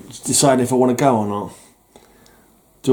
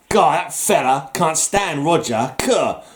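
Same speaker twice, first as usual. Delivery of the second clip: put-on disdain; 4 semitones higher, slower than usual. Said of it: "I'm too good of a villain".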